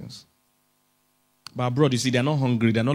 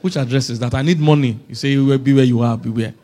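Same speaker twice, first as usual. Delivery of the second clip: comic baffled retort, growing louder; hungry man; 6 dB louder than usual. Acted. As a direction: play a hungry man demanding practical answers. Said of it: "Tell African hungry man".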